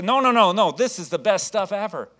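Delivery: acted-out sales zeal, starting loud; excited salesman. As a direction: insist on your product with keen enthusiasm. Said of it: "this guy was excited about cleaner".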